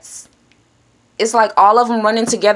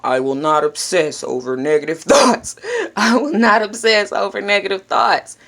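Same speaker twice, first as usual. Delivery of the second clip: mind repeating with a laugh. Shown as a demonstration. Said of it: "guess what your mind will do for you".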